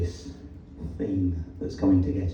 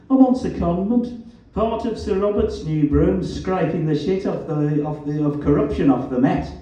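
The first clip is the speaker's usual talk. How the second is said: loud, raised Black Country jibe; Black Country accent; 7 semitones higher, 3 dB louder than usual. A narrator's reading. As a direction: needle him in broad Black Country. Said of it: "His black country accent was as vowelish as ever".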